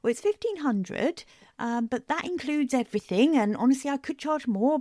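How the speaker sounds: mock unsure over-explainer; over-explaining. Shown as a demonstration. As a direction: justify yourself straight after naming the price. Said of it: "that urge to over-explain the price".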